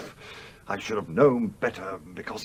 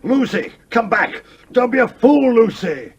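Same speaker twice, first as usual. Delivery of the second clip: shouting after her as she runs off, much higher and louder; calling out; 14 semitones higher, 12 dB louder than usual. Acted. Older woman shouting after Lucy as she leaves. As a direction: call her back before she's gone.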